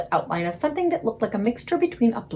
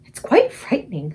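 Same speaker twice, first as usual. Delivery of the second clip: frightened cry; 2 semitones higher, 4 dB louder than usual. Acted. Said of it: "Sophie cried".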